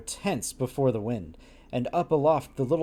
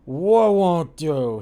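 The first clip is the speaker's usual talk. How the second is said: put-on drunken captain; 4 semitones higher, 9 dB louder, much slower than usual. Drunken captain answers slowly.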